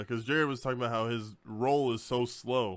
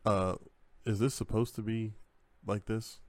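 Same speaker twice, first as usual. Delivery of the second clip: mock sheepish; 2 semitones lower than usual. Friend imitating player asking about equip load, mock sheepish. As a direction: ask haltingly, as if reluctant to admit needing help.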